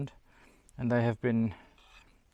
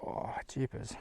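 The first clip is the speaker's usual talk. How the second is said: whispered; 11 dB quieter than usual. Real, not acted. Whispered aside.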